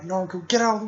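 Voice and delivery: high, fast shouted order; commanding yell. Retold or imitated. Villains ordering Naruto aside, a quick high yell. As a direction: bark him out of the way.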